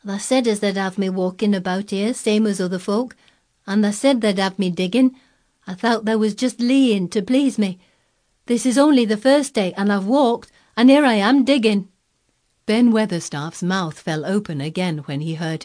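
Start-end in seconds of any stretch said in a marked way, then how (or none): 0.0-11.9 put-on high boy's Yorkshire, building louder in triumph; exultant Yorkshire. A narrator's reading. Colin showing Dickon he can dig, exultant Yorkshire. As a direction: crow it in broad Yorkshire. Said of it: "he spoke exultantly to Dickon in his best Yorkshire".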